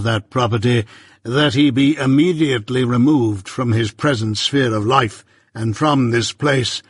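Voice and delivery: measured, stern lawyer, lightly voiced; Jaggers.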